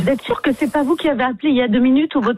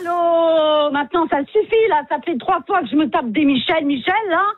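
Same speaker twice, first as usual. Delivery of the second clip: higher, fed-up rant at the caller; exasperated outburst; 4 semitones higher than usual. Acted. Hotel clerk to prank caller, exasperated higher rant. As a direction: snap that you've had enough of the Michels.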